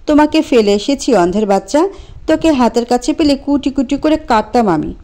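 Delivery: raging insults, voice climbing; furious. Acted. Priya lashing out at Anto over the phone, furious. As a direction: spit it at him like a curse. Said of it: "ক্ষিপ্ত হয়ে বলল".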